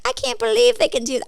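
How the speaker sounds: a mock-wide-eyed mom in awe of a fake video; mom's amazement. Daughter mimics her mom marveling at AI chickens, high and amazed. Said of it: "And she's like".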